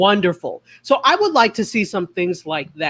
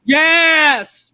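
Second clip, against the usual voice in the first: high, loud, eerie ghostly yes; 8 semitones higher, 5 dB louder than usual. Acted. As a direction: moan it out like a ghost. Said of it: "I sounded like a ghost when I said that".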